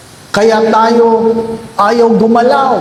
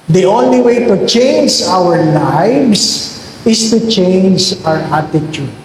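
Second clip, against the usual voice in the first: slow emphatic repeat; 2 semitones lower, slower than usual. Acted.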